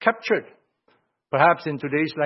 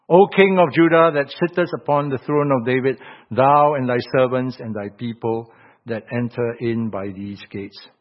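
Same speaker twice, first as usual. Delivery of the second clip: loud opening, settling into measured verse; scripture reading; 2 semitones lower, 3 dB louder than usual. Real, not acted. Preacher reads God's message to the king, proclaiming scripture. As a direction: read scripture aloud, proclaiming it.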